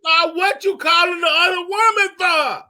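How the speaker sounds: real heated interruption; indignant outburst. Real, not acted. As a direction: cut in hollering a challenge. Co-host cuts in arguing.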